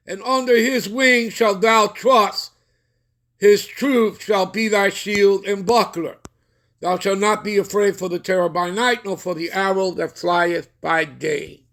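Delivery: slow, measured recitation; solemn psalm reading. Acted. Preacher reading Psalm ninety-one to the congregation, slow and measured. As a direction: intone the psalm with weight.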